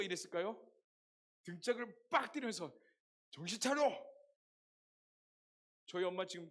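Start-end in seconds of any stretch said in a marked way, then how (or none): 3.3-4.1 loud sharp rebuke; mother yelling; mom's scolding. Retold or imitated. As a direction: snap your son back to his senses.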